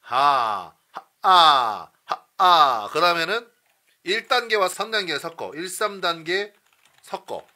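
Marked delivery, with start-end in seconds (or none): 0.0-2.9 loud punched 하, 아 bursts; staccato. Shown as a demonstration. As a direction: punch each 하, 아. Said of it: "이런 식으로 이제 깨우는 거야".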